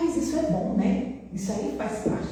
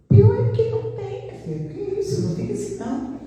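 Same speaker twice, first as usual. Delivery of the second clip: distressed protest; 13 semitones higher than usual. Retold or imitated. Retold reply to doctor.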